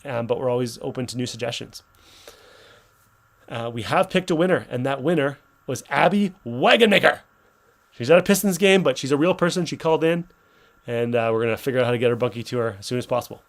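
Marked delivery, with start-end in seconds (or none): 3.8-10.3 excited, louder winner reveal; hyped giveaway announcement. Real, not acted. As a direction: announce the winner with a big lift.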